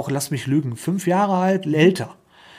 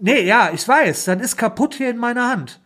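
exasperated retort; 6 semitones higher than usual. Retold or imitated.

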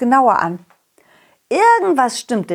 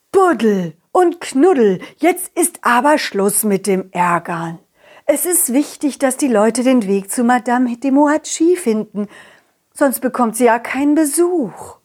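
mother worm voice; 3 semitones higher than usual. Acted. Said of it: "hörten wir eine Stimme unter der Erde".

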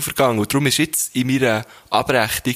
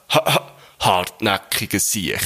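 breathy stammered ha, ha, then slow hartnäckiger Siech; stuttering man; 4 semitones lower, slower than usual. Acted. Man on the bridge stammering down at the other. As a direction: stutter out the insult slowly. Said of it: "der da oben auf der Brücke".

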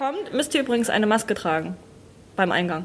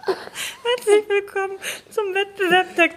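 announcer voice; 6 semitones higher than usual. Acted. Mock contest announcement.

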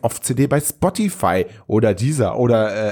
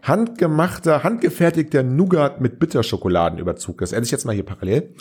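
talking while chewing nougat; words round a mouthful; mouth full. Real, not acted. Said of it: "Schmatzt jetzt ein bisschen ins Mikrofon".

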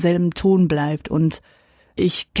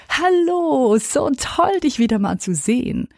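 high, bright put-on friendliness; fake cheerful greeting; 7 semitones higher than usual. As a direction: gush over-cheerfully without meaning it.

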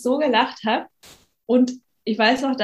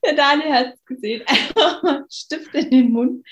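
laughing through a pen in mouth; pen in teeth; 7 semitones higher than usual. Real, not acted. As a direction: talk with a pen between teeth. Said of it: "die sehen das nicht, Betty".

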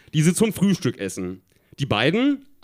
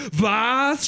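high, drawn-out cry of surprise; mild shriek; 7 semitones higher than usual. A narrator's reading. Tina hears the boy's circus story, shrieking mildly. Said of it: "schrie Tina".

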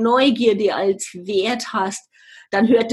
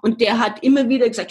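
usual speaking voice

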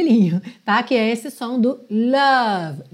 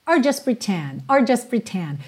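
quick linked phrase. Shown as a demonstration. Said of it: "Fica bem rapidinho aqui".

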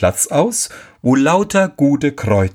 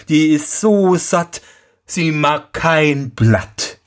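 lügender Sohn; 6 semitones higher, slower than usual. Acted. Lügender Sohn antwortet dem Vater.

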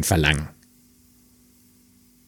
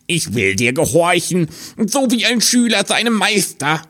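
little hare voice; 11 semitones higher than usual. Acted. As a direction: sigh it up high as a humble hare. Hare promises obedience.

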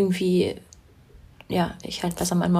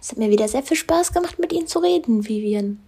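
mock formal; 3 semitones higher than usual. Mock formal goodbye to co-host.

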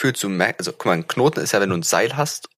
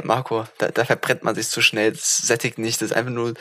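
ordinary talk, nothing marked

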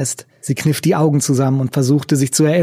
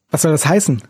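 ordinary delivery, nothing marked

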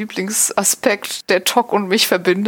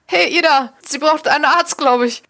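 calling out; 6 semitones higher than usual. Acted. Calling troopers feigning alarm.

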